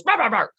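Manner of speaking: quick mock dog barks; imitated corrective bark. Trainer mimics adult dog correcting a puppy, mock barking. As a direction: bark out a short warning, lightly. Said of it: "gives a maternal correction and goes".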